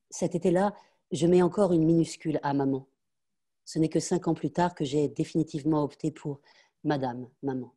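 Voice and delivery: steady, measured reading of a memoir passage; story narration. A narrator's reading. Reader narrating her childhood to listeners, in a measured voice. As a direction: tell it gently, like a grown woman remembering. Reads the novel passage aloud.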